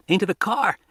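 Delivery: put-on a boy calling through static; scratchy voice. A narrator's reading. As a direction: rasp it out like a crackling radio call. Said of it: "said a scratchy voice".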